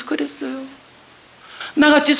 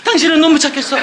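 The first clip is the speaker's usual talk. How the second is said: alarmed husband; 5 semitones higher, 4 dB louder than usual. Retold or imitated. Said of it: "내가 돌은 줄 알고".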